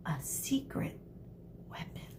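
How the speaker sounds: unvoiced secret whisper. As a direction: whisper it conspiratorially. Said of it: "Medusa winked".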